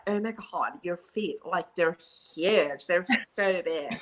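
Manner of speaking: put-on a touch of a giggly, awed Valley girl, slowly; lightly voiced Valley girl gushing. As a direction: play her wide-eyed and impressed. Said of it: "And she's like".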